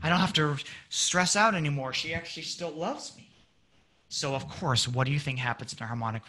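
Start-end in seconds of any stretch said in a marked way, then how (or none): 0.0-3.3 relaxed relief. Acted. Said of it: "You should be relaxed".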